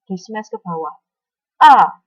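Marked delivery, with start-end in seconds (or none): 1.6-2.0 sharp falling "A", smashed downward, loud; fourth tone A. Shown as a demonstration. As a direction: snap "A" down like a badminton smash. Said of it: "dia seperti menyentak".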